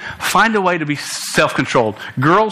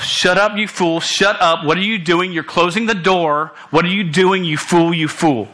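mild mock scream, slightly higher; retold self-scolding; 3 semitones higher than usual. Preacher retelling screaming at himself inside, mild mock yell. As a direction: berate yourself inwardly, only lightly raised. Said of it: "I was screaming at myself".

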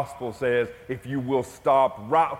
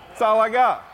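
laughing it out, higher; 7 semitones higher, 5 dB louder than usual. Real, not acted. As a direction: laugh through the punchline. Laughing at own poor supplies.

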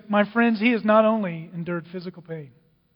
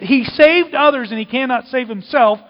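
loud, raised quote of the taunt; amazed quoting; 4 semitones higher, 7 dB louder than usual. Acted. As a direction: throw the mockers' words out emphatically. Amazed, repeats the mockers' taunt.

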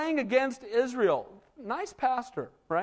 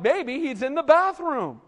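mocking trash talk; 4 semitones higher than usual. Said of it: "the first sign of trash talk ever".

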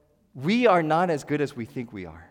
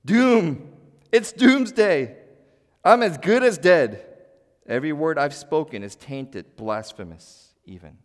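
loud, anguished cry of ruin, slowing on doomsday; dramatic doom; 2 semitones higher, 8 dB louder, slower than usual. Acted. Isaiah before a holy God, crying out loud in dread. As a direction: declare your own doom, shaken to the core. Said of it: "I like how Eugene Peterson says it".

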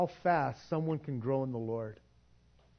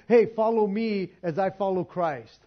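confident invitation; 3 semitones higher, 6 dB louder than usual. Pretend. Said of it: "would be able to say to these immature people".

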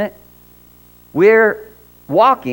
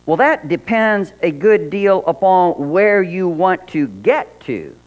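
slow, drawn-out cat voice; lazy, superior cat; snooty bored cat; 3 semitones higher, slower than usual. Acted. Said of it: "said the cat".

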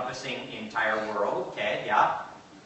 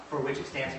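rote recitation; 2 semitones higher than usual. Shown as a demonstration. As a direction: pledge recited in trained phrases. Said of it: "you can hear the same rhythm".

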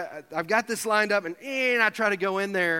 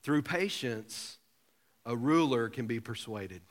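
scripture reading; 7 semitones lower, 6 dB quieter, slower than usual. Shown as a demonstration. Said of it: "Look at Proverbs twenty-five fifteen".

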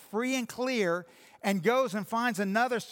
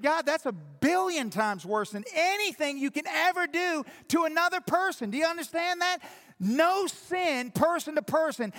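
preaching at full force; 6 semitones higher than usual. Acted. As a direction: preach it hard to the congregation. Preaching a sermon.

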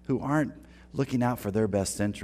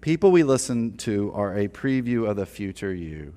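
"People" stressed, spoken slowly so it can be written down; slow emphatic dictation. Shown as a demonstration. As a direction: deliver it like a line to note down. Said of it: "Write this down".

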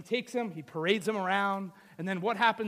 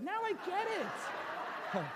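high, slow, stretched-out dawning; hammed-up penny-drop moment; mock realisation; 9 semitones higher, 6 dB quieter, much slower than usual. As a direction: draw it out as it all clicks. Husband acts out sudden realisation.

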